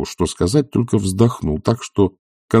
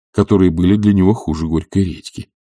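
ordinary delivery, nothing marked

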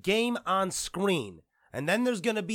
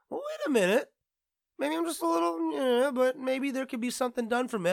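higher, hesitant self-talk; inner voice; 9 semitones higher than usual. Retold or imitated. Vlogger reconsidering his first reaction, mildly higher self-talk. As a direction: catch yourself mid-thought. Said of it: "But then I go".

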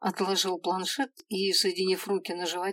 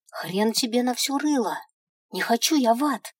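higher, louder defiant outburst; defiant exclamation; 5 semitones higher, 6 dB louder than usual. Acted. Girl defying the imp, loud and rude. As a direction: stamp your foot and refuse. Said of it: "воскликнула".

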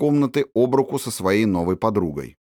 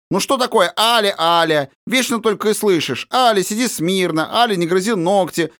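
high, whiny mocking of her governess; bored complaint; 11 semitones higher, 3 dB louder than usual. A narrator's reading. Princess grumbling at her governess, high and sulky. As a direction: pout and complain it's all boring. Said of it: "надула хорошенькие губки".

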